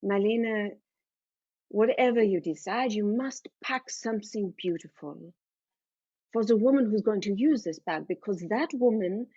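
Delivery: put-on earnest German-accented mother; firm, measured motherly counsel. Mother advising daughter on packing, earnest German-accented voice. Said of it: "she says".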